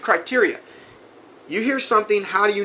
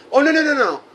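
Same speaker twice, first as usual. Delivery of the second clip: scoffing no; 9 semitones higher, 4 dB louder, faster than usual. Real, not acted. Mocking the sealing claim.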